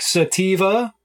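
put-on Steve in a Korean accent, sounding like sativa. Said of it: "pronounce his name in, like, the Korean accent".

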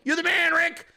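high-pitched gushing praise; put-on high cheerleading; fake-sincere trolling. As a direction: imitate an earnest fan to needle him. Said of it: "And you're sincere as fuck".

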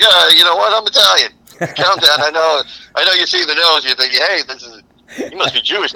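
a con man talking his way in; imitating Columbus. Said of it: "so he's like".

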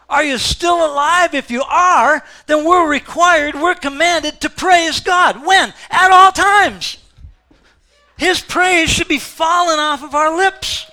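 high and loud, at full force; rally the church, slowing on at all times; preacher commanding praise, shouting; preaching shout. Real, not acted.

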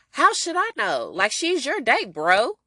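irritated bro brushing off the question; salty retort. Retold or imitated. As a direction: toss it off like a bitter rival. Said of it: "he is salty as fuck".

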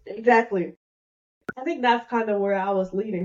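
choking on a drink; words pushed past a tickle in the throat. Real, not acted. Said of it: "I am choking to death".

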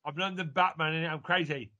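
put-on high, silly London accent; mock-Cockney superhero with a laugh in it; Oscar Isaac's British accent. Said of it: "That's how he talks on Moon Knight".

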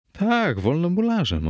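high, swooping insistence; emphatic affirmation. Acted. Narrator insisting to doubting Fortunato, emphatic high reply.

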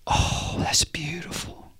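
hushed, mock-awed whisper; religious church onlooker. Churchgoer moved by Jesus crying, mock-awed whisper. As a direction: sigh it out in a slow, gushing whisper. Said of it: "the religious church in the next verse".

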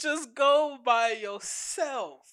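slow drawn-out mock advice; slowly imitating a friend; slow quote. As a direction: stretch each word, teasing. Quoting River's advice again.

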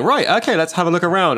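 brisk workman checking the loft; breezy handyman sizing things up; tradesman voice. Retold or imitated. Man poking around the loft.

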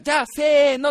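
loud, high count-in; rally the crowd to shout together; host's cue. Retold or imitated. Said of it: "お兄さんが、".

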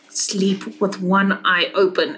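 slow, understated threat; menacing cat. Acted. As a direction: deliver a measured warning as the cat. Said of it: "she says in cat".

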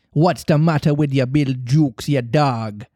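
lightly voiced pirate captain; a touch of menace at an underling; hissed. Hook demanding news of his crewman, mildly menacing. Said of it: "hissed Hook".

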